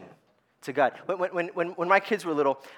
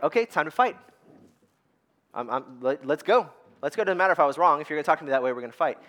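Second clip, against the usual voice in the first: mock fighting talk; 3 dB louder, faster than usual. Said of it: "I was like".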